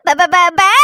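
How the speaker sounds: put-on whimpering baby syllables; crying babble. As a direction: sob out பா பா like a baby.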